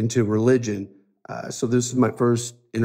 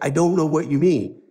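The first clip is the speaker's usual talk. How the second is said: mild retold frustration, raised pitch; frustrated; 4 semitones higher than usual. Nephew answering his uncle's repeated question, mildly frustrated. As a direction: plead a little, as if at a loss. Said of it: "and I'm getting frustrated".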